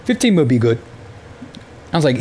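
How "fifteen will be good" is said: bad Italian accent, veering Indian; mock Indian-Italian accent. Customer mimics the pizza guy's price, mock Indian-Italian accent. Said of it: "a little bit more of an Indian accent than Italian".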